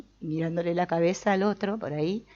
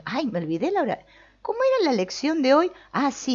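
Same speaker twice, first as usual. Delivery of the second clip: mock scatterbrained student; 10 semitones higher, 5 dB louder than usual.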